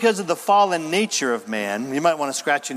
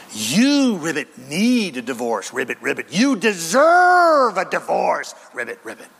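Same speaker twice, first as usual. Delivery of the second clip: tempting demon frog; 3 dB louder than usual. Pretend. Demon frog urging divorce.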